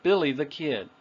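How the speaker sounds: put-on "Billy the Kid" linked, prominent "Billy", falling end; "Billy" stressed, "the" light, "Kid" falling; natural rhythm. Shown as a demonstration. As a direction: run "Billy the Kid" together as one phrase. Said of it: "This is the rhythm of it as well".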